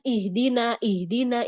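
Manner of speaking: ihdina with no breath flow on the H; unclear H. Shown as a demonstration. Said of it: "Nggak jelas".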